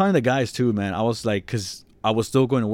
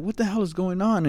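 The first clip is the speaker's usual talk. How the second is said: higher-pitched mock bewilderment; retold disbelief; 10 semitones higher than usual. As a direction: replay your baffled reaction, pitched up. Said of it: "I couldn't believe it".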